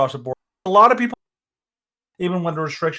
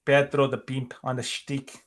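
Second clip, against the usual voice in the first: slow, soft mock Mexican accent; Pedro; 5 dB quieter, slower than usual. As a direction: draw it out in a put-on Mexican accent. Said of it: "I'm gonna bring back Pedro".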